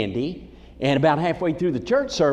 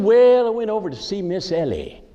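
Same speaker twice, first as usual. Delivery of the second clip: funny-talking barber. Retold or imitated. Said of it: "But he talked funny".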